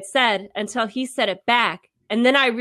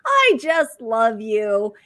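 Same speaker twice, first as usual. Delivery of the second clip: high laugh sliding into slow love you; creepy teacher laugh; 4 semitones higher, much slower than usual. Retold or imitated. Imitating the weird teacher laughing, high then slow. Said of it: "he just goes".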